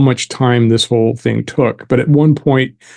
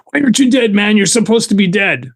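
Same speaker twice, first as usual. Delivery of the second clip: higher, panicky disbelief; freaked-out disbelief; 8 semitones higher than usual. Retold or imitated. Gunman freaking out at the man he shot, high panicky disbelief. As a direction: retell his shock that you're not dead, pitched up high.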